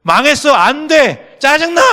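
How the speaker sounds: high, loud frustrated yell; mock shout of inner voice. Inner voice yelling defeat at oneself, acted frustrated shout. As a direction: blurt it out like a despairing heart. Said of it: "이러면서요".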